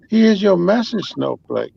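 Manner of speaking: announcing voice. Retold or imitated. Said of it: "'Cause I thought maybe".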